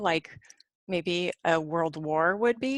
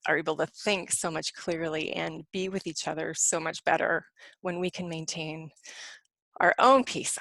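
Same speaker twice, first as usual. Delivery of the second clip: out of breath. Real, not acted. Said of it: "I'm running out of breath".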